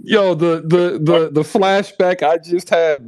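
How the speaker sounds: high-pitched, real laugh-struck stumbling; crying with laughter. Real, not acted. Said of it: "man, I'm crying".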